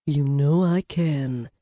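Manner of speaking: slow, low sultry purr; a touch of a little devil; sultry brunette. Acted. Brunette assuring Blaze, slow and low.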